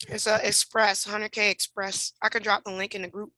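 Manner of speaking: talking while chewing; words around a mouthful; wolfing down food. Real, not acted. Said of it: "I'm eating, I'm starving".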